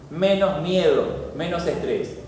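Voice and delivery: preacher lulling the congregation, slow and soft; soothing hush. Shown as a demonstration. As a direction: say it like calming a child to sleep. Repeats the benefits, soothing.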